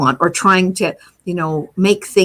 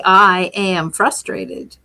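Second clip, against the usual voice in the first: slow statement; much slower than usual. Shown as a demonstration. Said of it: "when you say".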